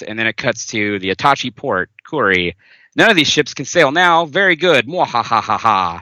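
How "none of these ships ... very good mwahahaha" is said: nasal deadpan villain. Acted. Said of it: "my, like, nasal deadpan".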